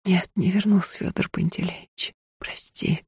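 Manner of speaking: soft, fading to a breath; quiet tearful farewell; tearful refusal. Acted. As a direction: refuse him gently through tears. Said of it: "вытирая бегущие по лицу слёзы".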